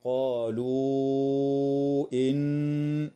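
قالوا إن with the waw of قالوا stretched long before إن; madd munfasil. Shown as a demonstration. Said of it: "وتمد الواو قبل الهمزة". (مد الواو في قالوا قبل الهمزة)

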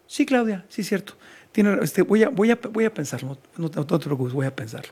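mock agreement, fading away; condescending brush-off. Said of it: "la pareja condescendiente".

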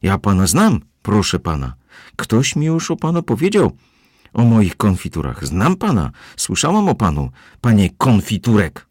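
high, loud accusing scold. A narrator's reading. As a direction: wag a finger and tell him off.

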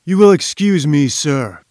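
booming. Acted. Professor breaking his silence to interrupt the inventor, booming. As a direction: boom it out, cutting him off. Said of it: "boomed Challenger".

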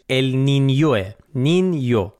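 «النینیوه» with a clear ny glide before the o; تلفظ درست. Shown as a demonstration. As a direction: say «نینیو» slowly with a ny sound, nin-yo. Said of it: "تلفظ درستش". («النینیو» با تلفظ درست و صدای «نیو»)

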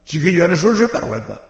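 kindly teasing "sinvergüenza". Shown as a demonstration. Preacher showing the kind way to call a kid a rascal, friendly teasing. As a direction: scold the boy lightly, with a friendly tone. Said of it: "si lo dices amablemente".

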